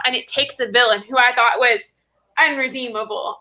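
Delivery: milk the word unredeemable for drama; overly dramatic. Acted. Bookseller hams up her pitch of a villain, dramatically. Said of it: "I'm being so dramatic".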